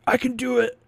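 a playful, laughing quote of his protest; laughing through it. Retold or imitated. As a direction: quote said high while laughing. Injured guy insisting he's fine.

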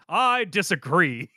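drawn-out, slow mock objection; emphatic disagreement. Joseph refusing to fetch the others, slow mock objection. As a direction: stretch the refusal out theatrically.

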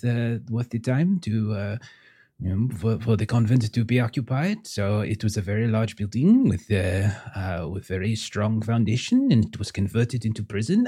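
put-on gracious host with a French accent; lightly French-accented hostess, unhurried. GM voices the host's wife again.

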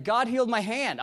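high, loud retelling of thrilled news; excited announcement. Retold or imitated. Woman telling the preacher of her healing, excited. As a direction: imitate her blurting out amazing news.

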